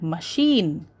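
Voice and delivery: "machine" with sheen stretched; stress on second syllable. Shown as a demonstration. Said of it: "Sheen is stressed".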